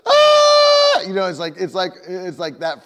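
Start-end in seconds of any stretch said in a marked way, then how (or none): 0.1-1.0 sudden loud, high wail after a long silence; imitated child's cry. Preacher imitating a little kid who got hurt, piercing mock cry. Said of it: "if the first cry they do is silent".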